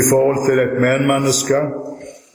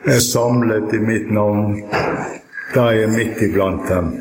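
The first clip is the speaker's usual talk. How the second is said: prayer; 2 semitones lower than usual. Real, not acted. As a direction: pray in unhurried phrases, pausing between them. Opening prayer before the reading.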